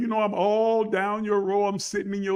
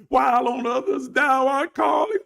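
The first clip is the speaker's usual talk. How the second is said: loud, higher hymn-line wail; mock pleading; 5 semitones higher, 4 dB louder than usual. Preacher playing a beggar to the Lord, loud mock plea.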